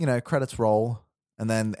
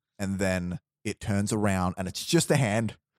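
ordinary talk, nothing marked

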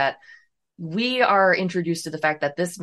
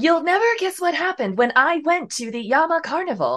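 very high, computer-read text-to-speech voiceover; 10 semitones higher than usual. Joking that the two of them sound like it, the speaker mimics the TikTok voice. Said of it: "we sound like the TikTok voice".

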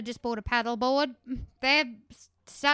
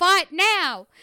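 high, loud, silly joking yell; 5 semitones higher, 6 dB louder than usual. Retelling what the dad yelled as a joke: imitating the dad yelling. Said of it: "he yelled".

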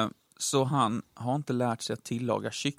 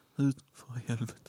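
mock trembling voice, softer; 4 dB quieter than usual. Retelling a sweaty man in an elevator telling people to get out: imitating a shaky voice. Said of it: "med skakig röst säger han".

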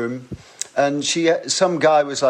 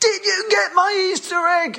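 play-acted very high, full-throated top-of-the-voice yell. Standing at the front as she reaches the speaker, retelling own shout to her. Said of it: "I'm shouting at the top of my voice".

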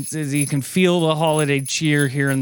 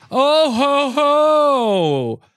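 put-on laugh, much higher, louder, slower; 11 semitones higher, 4 dB louder than usual. Podcast host opening the show in a Santa bit, attempting a Santa Claus 'ho, ho, ho' laugh. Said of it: "I was trying to do like a ho, ho, ho".

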